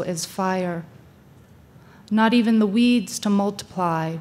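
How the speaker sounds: emphatic verse reading with spacious pauses; poem recitation. Acted. Speaker offering a Jeffers poem to inspire listeners, deliberate poem recitation. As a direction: declaim each phrase deliberately, easing down at the close.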